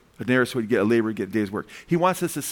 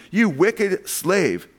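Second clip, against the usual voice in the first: slow, drawn-out, raised-pitch condemnation; stern rebuke; 4 semitones higher, much slower than usual. A narrator's reading. Lord to his unforgiving slave, stern rebuke. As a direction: condemn him, stretching every word.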